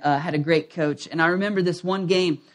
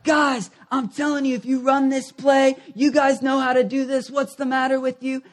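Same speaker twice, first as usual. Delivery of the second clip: higher, pressing coach voice; retold coach yelling; 5 semitones higher than usual. Coach yelling at his players during timeout, higher urgent voice. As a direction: urge the players like a fed-up coach. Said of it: "he's yelling at us".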